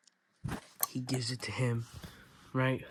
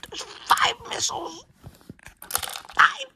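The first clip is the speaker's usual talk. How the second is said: high, louder, slow exclaim with a cry in it; excited exclaim; 7 dB louder, slower than usual. Real, not acted. Kid showing off his build, then excited. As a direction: stretch it out as if amazed. Repeating count, louder and higher.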